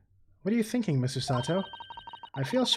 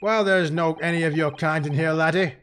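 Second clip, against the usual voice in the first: put-on Scottish accent. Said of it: "making the accent work".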